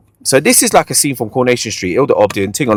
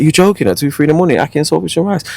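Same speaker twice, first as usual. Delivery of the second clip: incredulous retort; 6 semitones higher, faster than usual. Retold or imitated. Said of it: "I'm like".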